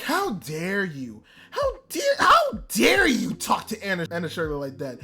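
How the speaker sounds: re-enacted outrage, stressed words jumping up; indignant rant. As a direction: scold in hammered-up indignation. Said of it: "a five-minute rant by myself".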